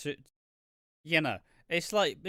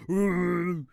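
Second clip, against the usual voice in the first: mock dog hoot; 4 semitones higher, 7 dB louder than usual. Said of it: "Back behind the phones".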